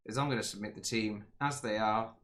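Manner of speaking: worn, hoarse voice; losing voice. Real, not acted. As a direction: voice giving out from talking. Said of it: "I'm losing my voice".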